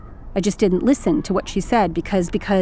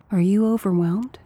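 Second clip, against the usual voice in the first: genuinely concerned. Acted. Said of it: "genuinely concerned".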